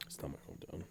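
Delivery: low gruff cowboy growl under the breath; very soft, husky old-west cowboy. Pretend. Host grumbling about his hometown, cowboy voice. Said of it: "you sound like a fucking cowboy".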